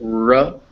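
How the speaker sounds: R sounded out as "ruh"; R sound demo. Shown as a demonstration. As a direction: demonstrate R as a consonant sound, "ruh". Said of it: "if you kind of make it".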